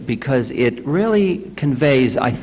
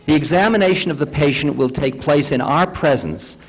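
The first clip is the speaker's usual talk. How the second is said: lightly raised reading voice, measured and clear; reading aloud; 3 semitones higher than usual. Acted. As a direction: read the passage to the group with care. Reads a book passage aloud.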